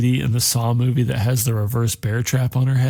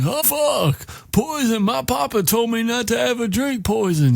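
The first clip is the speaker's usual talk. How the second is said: put-on very high, panicked childlike wail; put-on high voice, hammed-up alarm; simple-minded Tom Cullen; 11 semitones higher than usual. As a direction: cry out like a frightened overgrown kid. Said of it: "And Tom's like".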